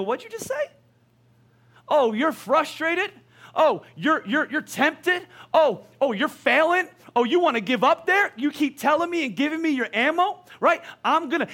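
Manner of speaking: high, taunting demon voice gloating over every complaint; mocking demon. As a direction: sneer like a demon collecting ammo.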